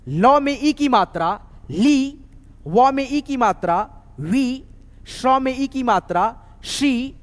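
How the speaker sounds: slow recital of letter plus ई; syllable drill. Shown as a demonstration. Teacher keeps drilling the class through the syllables. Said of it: "continuing syllable drill".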